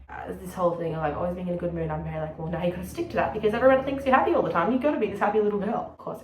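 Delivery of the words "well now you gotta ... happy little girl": quick, louder inner nag; pressuring inner voice. Acted. Speaker mimics pressure to always seem happy, insistent. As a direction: rattle it off insistently, a bit higher.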